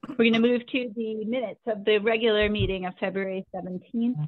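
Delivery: muffled phone audio, like through a wall. Real, not acted. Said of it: "It's muffled".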